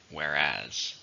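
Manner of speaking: whereas, weight on the final AS; second-syllable stress. Shown as a demonstration. Teacher models whereas for learners, stress on AS. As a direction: say whereas as where-AS, voice dropped low. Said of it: "stress in the second".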